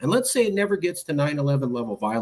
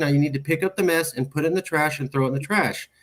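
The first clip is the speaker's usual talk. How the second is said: imitating a mother's higher-pitched nag; nagging mom; 3 semitones higher than usual. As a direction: get on your kid about the chore. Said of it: "My mom was getting on me".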